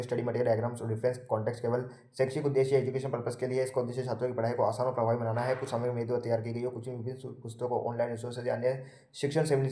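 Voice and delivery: brisk, even reading of a notice; disclaimer read-out. Acted. Teacher reads copyright notice to students, brisk formal read-out. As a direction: rattle through the formal small print.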